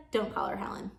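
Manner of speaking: hushed whisper; grandma whispering a correction; whispered aside. Acted.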